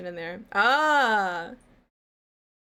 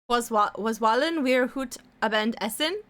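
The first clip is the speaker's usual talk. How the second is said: a weak attempt at a German accent; lightly German-accented German phrase; bad German accent. Shown as a demonstration. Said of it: "the really bad, uh, German accent".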